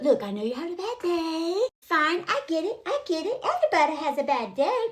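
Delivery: mock-patient motherly placating; mom to a child. Woman placating her threatened boyfriend, like a mom. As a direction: coax it like soothing a sulky child. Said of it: "how a mom has to talk to a child".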